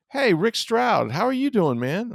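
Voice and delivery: high, drawn-out "Hey, Rick Stroud" in a cheery voice; mock Tirico greeting. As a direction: imitate a beaming broadcaster spotting a friend.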